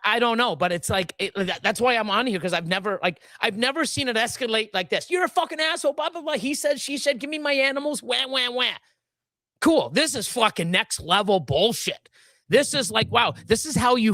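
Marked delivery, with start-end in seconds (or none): 5.1-8.7 higher-pitched mock complaint; mocking retelling. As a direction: dismissively parody a whiny tirade. Retelling an escalating quarrel mockingly.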